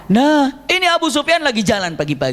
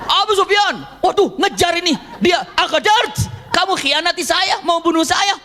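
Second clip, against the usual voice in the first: mock fright; 9 semitones higher than usual. Abu Sufyan fleeing in fear.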